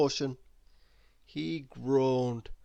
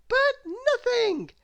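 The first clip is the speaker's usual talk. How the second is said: much higher, slow, cheerfully bossy; bossy cry; 6 dB louder, slower than usual. Acted. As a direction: overrule him brightly, no arguing. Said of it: "cried little Miss Helpful".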